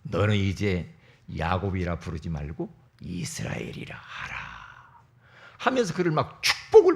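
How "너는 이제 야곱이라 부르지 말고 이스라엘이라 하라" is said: angel's voice. Acted. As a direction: grant the blessing in a hushed voice. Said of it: "천사가".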